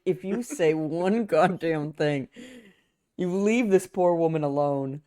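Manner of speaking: slow, measured retold warning; stern warning. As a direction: warn him slowly, word by word.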